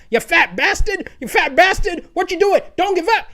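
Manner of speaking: high mock yell at himself; yelling at myself. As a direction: play your own drill sergeant, hammed-up. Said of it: "I have to be yelling at myself".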